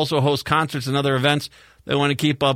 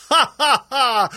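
high, loud fake chortle; mock laughter; 10 semitones higher, 4 dB louder, slower than usual. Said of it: "Chortles of laughter".

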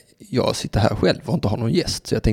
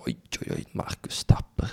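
hushed, breathless awe at the name; awed whisper; 11 semitones lower, 9 dB quieter than usual. Acted. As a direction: whisper it like a legend. Awed whisper about guest.

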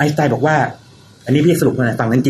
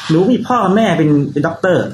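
higher, lightly voiced daughter; daughter reasoning; 5 semitones higher than usual. Daughter reasons about her doctor parents, lightly imitated. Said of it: "วันหนึ่งจู่ๆก็มาบอกพี่กับแฟนผมว่าไงรู้ไหม".

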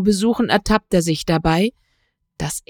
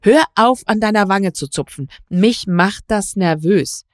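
irritated command to stop; sharp; 3 semitones higher, 3 dB louder than usual. Acted. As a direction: cut him off sharply. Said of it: "sagte Katharina scharf".

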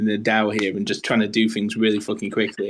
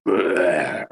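goblin noise; 4 semitones lower than usual. Retold or imitated. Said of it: "that was a rubbish Lion impression".

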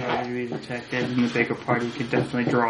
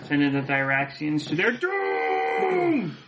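dramatic shout; slower than usual. Acted. Dramatic declaration, shout heard.

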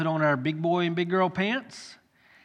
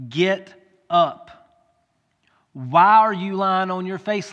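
stern voice of God; 3 semitones higher, 5 dB louder than usual. Acted. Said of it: "God says to Joshua".

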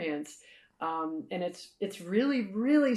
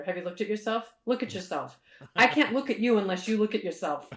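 psychologist character; 4 semitones higher, 4 dB louder, faster than usual. Retold or imitated. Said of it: "the Nora Dunn psychologist character".

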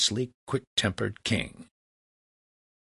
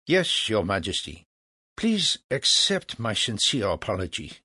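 calm. Acted. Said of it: "replied calmly".

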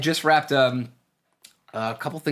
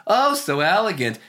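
higher, louder, mock-posh affected voice; mock fancy elegance; 9 semitones higher, 5 dB louder than usual. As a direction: ham up a snooty elegant socialite. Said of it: "like, fancy dance".

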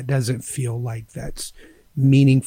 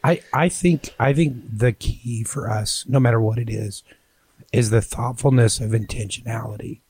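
hoarse voice. Real, not acted. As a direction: voice almost gone, hoarse and strained. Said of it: "Sorry, my voice is gone".

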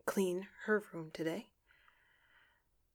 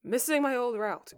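ordinary talk, nothing marked

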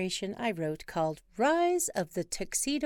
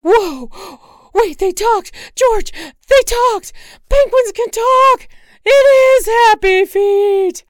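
much higher, very loud, thrilled; amazed shriek; 17 dB louder, slower than usual. Acted. Wife discovering talking penguins, shrieking. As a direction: scream with amazement.

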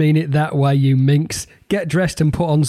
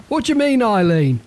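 playful rhyme repeat; 6 semitones higher than usual. Acted. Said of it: "Funny that".

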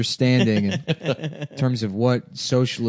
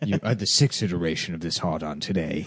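the Architect; 7 semitones lower, 6 dB quieter than usual. Acted. Film parody telling his friend his fate, low and stately. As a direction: pronounce it softly with lofty, measured precision. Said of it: "the architect in the Matrix".

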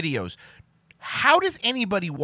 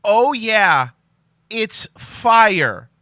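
mocking imitation; 5 semitones higher, 9 dB louder, much slower than usual. Mocking the clip line.

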